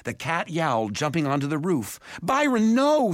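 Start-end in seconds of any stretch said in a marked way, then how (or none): 2.2-3.1 loud, high shout of command; urgent yell. A narrator's reading. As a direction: yell to stop an animal at once. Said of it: "Simon yelled".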